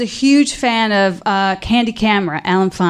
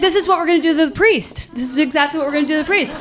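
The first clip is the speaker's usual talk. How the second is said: scheming sister; 4 semitones higher, much faster than usual. Retold or imitated. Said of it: "so she's like".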